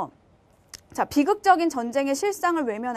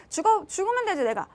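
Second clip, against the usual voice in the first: higher-pitched, mildly spiteful retort; 얄미운 아내; 5 semitones higher than usual. Acted. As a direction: lightly play the provoking wife. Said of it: "얄미운 짓을 해". (얄밉게 톡 쏘는 아내 흉내)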